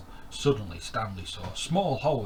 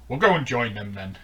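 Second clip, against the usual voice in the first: lobster; 2 semitones higher, 10 dB louder than usual. Acted. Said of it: "said the lobster".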